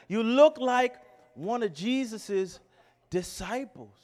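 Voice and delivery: put-on playful second go at a Southern accent; lightly put-on Southern accent, falling at the end. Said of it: "That's my best Southern accent".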